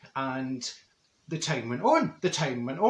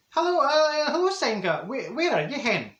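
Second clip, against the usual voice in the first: phone call hello; 9 semitones higher than usual. Retold or imitated. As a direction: call down the mobile to a late friend. Phoning Senga on the mobile.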